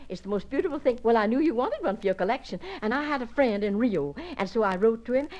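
effusive guest, rushing from one greeting to the next; gushing society guest. Acted. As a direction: pour it out, delighted with everyone. Gushing visitor greets the house party.

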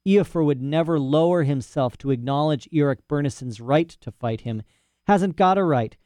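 put-on high, fussy old scholar voice; eccentric old professor. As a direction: play a proud, rambling old professor. Professor explains bear customs.

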